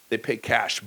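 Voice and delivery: normal talking voice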